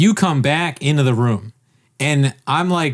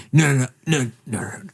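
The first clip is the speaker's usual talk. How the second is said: wordless signalling. Retold or imitated. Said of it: "making these crazy, like, face things".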